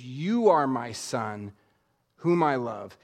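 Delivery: slow, low and tender; tender to his son. Acted. The Father speaking directly to Jesus, slow and tender. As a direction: speak it straight to the son, gently. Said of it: "he speaks directly to Jesus".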